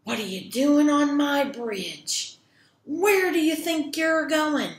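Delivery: loud, challenging troll voice; loud troll confronting a trespasser. Acted. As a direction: demand it as the bridge's owner. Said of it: "this troll ... jumps out ... and says".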